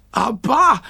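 put-on high, punchy toddler exclamation; baby voice. A narrator's reading. Kayla backing up the Gigglerin, high baby voice.

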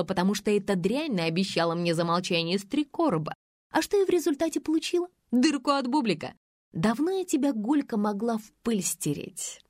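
a hint of a vengeful ex-friend spilling secrets; spiteful Faina. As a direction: narrator reading the spiteful ex-friend's tirade, lightly voiced. Faina's long accusing tirade.

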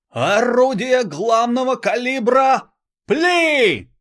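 very high, slow, loud yell; operator shout. Acted. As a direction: bellow the relayed command. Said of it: "продублировал оператор".

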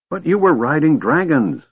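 put-on high-pitched old man's objection; protesting old man. A narrator's reading. Old man objects to Tanis riding dragons, protesting.

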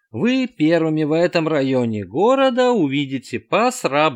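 loud, slow, high glitching machine; broken robot voice. A narrator's reading. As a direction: bursts like a failing speaker. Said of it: "Голос то затухал, то гремел".

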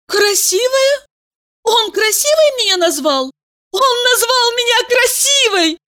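put-on girl hears herself called beautiful, high and amazed; amazed thought. A narrator's reading. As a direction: savour the word, astonished. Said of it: "Подумала".

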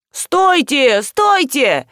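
high, urgent mock yell; вопль. A narrator's reading. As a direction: call out to stop them. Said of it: "завопил разноголосый хор". (вопль вдогонку, повыше)

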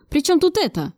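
exclaim, taken aback; mild exclamation. A narrator's reading. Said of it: "и воскликнул". (недоумённое восклицание)

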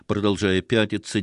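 ordinary delivery, nothing marked

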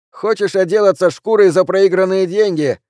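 high, loud, piping question; squeaky-voiced teasing remark. A narrator's reading. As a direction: pitch it up into a thin squeak. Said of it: "заметил Ройс писклявым голосом".

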